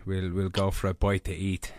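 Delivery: mock Irish accent. Co-host courting Danae over dinner, mock Irish accent. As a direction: lay on a jokey Irish brogue. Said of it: "Too much Irish will weaken the knees".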